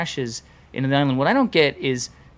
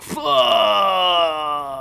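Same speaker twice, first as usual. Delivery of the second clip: sudden loud yell of shock; shouted curse; 4 semitones higher, 4 dB louder than usual. Retold or imitated. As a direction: blurt it out loud. Movie crowd reacting to blast.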